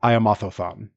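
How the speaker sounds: Otho-san lisped, th in place of s; casual lisped Otho-san; imitating a lisp. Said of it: "an incredible lisp on Aso-san".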